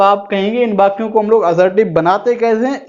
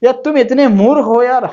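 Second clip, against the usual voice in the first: mock surprise; 4 semitones higher than usual. Shown as a demonstration. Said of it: "ये आश्चर्य show कर रहा है".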